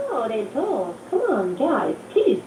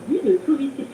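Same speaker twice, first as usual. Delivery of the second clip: French accent. Shown as a demonstration. Guest shows caller her French accent, French accent. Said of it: "With my French accent".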